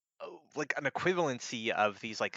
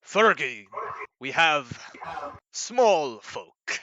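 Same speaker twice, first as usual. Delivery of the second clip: loud, high call to a companion; giant calling out; 5 semitones higher, 8 dB louder, much slower than usual. Acted. Giant calling to his partner about the intruder, loud. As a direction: shout the find across the ruins.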